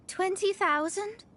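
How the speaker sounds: a laughing, stunned echo of the sum; slow, delighted disbelief with a little laugh; surprised. Acted. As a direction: catch your breath at the money, drawn out. Mona stunned by large reward.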